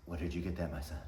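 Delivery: lightly voiced, hushed God; God's voice. God at heaven's gate, soft and questioning. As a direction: ask it softly like a kindly God.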